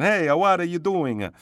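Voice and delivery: high, loud mock movie-Italian accent. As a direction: ham up a cartoon Italian accent, adding A's to word ends. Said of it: "the movie version of an Italian person".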